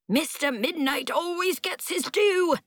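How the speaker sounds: high, eerie undead rasp, lightly voiced; creepy zombie voice. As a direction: speak like a creepy walking corpse. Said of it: "He sounded like a creepy zombie".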